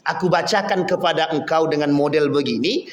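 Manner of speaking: low, soft, measured reply; Nabi Muhammad. Acted. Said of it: "Kata Nabi". (menjawab tenang, nada rendah)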